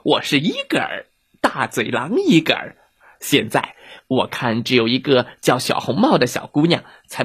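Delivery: lightly voiced, boastful wolf; menacing big bad wolf. Wolf Igor threatening the little girl, mildly menacing. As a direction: play a scornful wolf sizing up supper.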